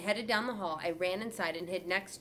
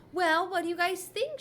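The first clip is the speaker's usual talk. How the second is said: put-on much higher, louder, preening girl voice; attention-seeking girl; 11 semitones higher, 5 dB louder than usual. A narrator's reading. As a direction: demand to be admired. Girl twirling, showing off.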